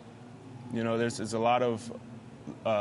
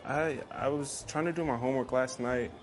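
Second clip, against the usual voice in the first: sweet-talking teacher's pet; 2 semitones higher than usual. Retold or imitated. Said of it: "Gets him every time".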